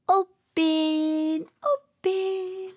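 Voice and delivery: drawn-out opening. Pretend. Opening toy coop door slowly.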